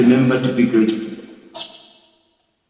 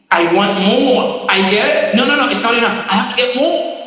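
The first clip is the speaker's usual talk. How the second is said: higher, insistent voice demanding more; greedy discontent voice; 7 semitones higher than usual. Retold or imitated. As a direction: act out someone who is never satisfied. Voicing a never content person.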